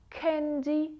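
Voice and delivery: teacher's loud model candy; loud model word. Shown as a demonstration. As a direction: sing out candy to the class. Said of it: "For example".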